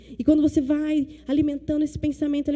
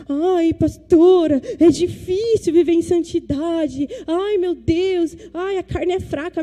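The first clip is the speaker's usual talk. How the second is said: slow, sighing mock complaint, louder; mocking whiny youth; 4 semitones higher, 4 dB louder, slower than usual. Pastor mocking young people who excuse sin, whiny. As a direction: whine like a teen making excuses. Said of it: "jovens que a gente atende e fala assim".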